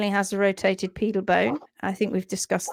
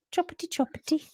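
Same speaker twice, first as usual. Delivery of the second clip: playful sing-song; 8 semitones higher, 6 dB quieter, faster than usual. Pretend. Urging the software along.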